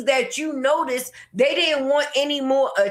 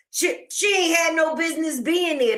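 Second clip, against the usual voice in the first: heated; 4 semitones higher than usual. Real, not acted. Ranting at the cousin.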